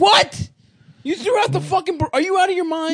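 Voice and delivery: high shocked yell; mock outrage at a friend; outraged. Outrage over thrown-out burrito.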